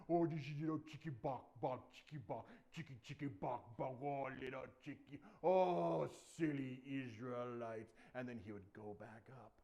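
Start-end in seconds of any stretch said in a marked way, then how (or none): 0.1-7.9 lightly voiced giant making chicken jeers; mock them like clucking chickens; big bursts on each "Oh"; taunting giant. Giant mocking army as chickens.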